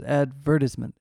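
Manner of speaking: "advertisement" broken by an odd pause; weird pause. Retold or imitated. Critic showing co-hosts her odd word, weird pause. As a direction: split "advertisement" with a strange little gap. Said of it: "she puts this weird pause in there".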